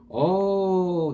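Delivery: high, drawn-out "oh"; merchant's voice. Acted. Rich merchant answers the married woman, in high acted voice. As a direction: put on a high voice for the suitor. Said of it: "he said".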